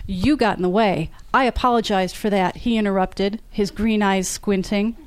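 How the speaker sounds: author reading her own novel aloud, voicing the characters lightly; story reading. A narrator's reading. Author reads an elevator quarrel to fans, lively narration. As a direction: read the scene to the audience like a storyteller.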